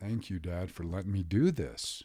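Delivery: put-on tearful crying voice. Retelling thanking his father while rubbing his feet: imitating own past crying. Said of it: "just crying".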